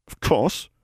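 put-on high old crone, said tightly; tight creaky old voice. A narrator's reading. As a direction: bite it off like a sour old woman. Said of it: "Goody Pruitt said tightly".

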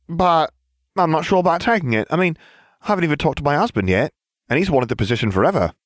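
very high, quick, airheaded voice; squeaky airhead voice; ditzy blonde witch. A narrator's reading. Farfelu voiced high fast.

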